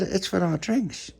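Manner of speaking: high, slow explanation; piping, drawn-out reply; little child. Acted.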